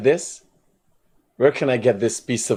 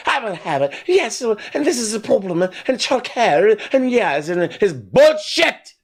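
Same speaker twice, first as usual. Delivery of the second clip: mock caller voice; 9 semitones higher than usual. Mocking a caller's complaint.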